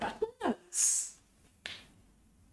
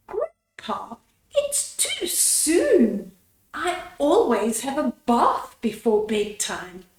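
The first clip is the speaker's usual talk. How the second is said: put-on whiny child plea. Anna whining to grandpa.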